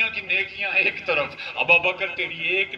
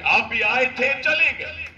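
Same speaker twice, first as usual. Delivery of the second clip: mocking retort; 5 semitones higher than usual. Shown as a demonstration. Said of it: "یہ الفاظ استعمال کریں".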